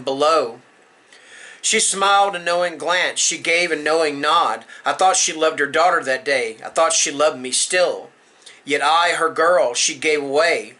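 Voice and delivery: measured, solemn poem reading; poem recital. Acted. Reading a folk horror poem to viewers, measured recital. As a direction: recite a dark folk poem in steady, falling phrases.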